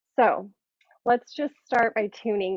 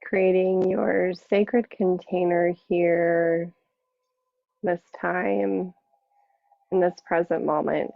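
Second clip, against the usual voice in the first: guided meditation. Acted. Yoga teacher settling the class into seated practice, guided meditation. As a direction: ease them inward, unhurried, letting each phrase settle.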